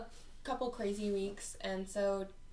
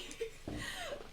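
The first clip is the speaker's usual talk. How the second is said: high unvoiced burst of laughter; 11 dB quieter than usual. Real, not acted. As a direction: break into giggles. Laughing at own impression.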